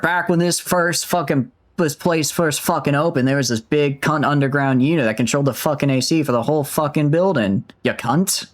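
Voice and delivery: put-on sweary amateur Aussie accent; hammed-up Australian; attempted Australian accent. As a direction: push through in a rough Australian accent. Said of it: "I'm losing the accent".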